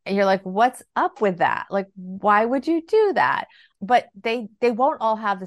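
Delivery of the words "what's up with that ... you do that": slow, drawn-out incredulous question; puzzled, judging mock reaction; mild disbelief. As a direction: imitate a baffled parent, stretching the words. Baffled parent reacting to pricey sneakers.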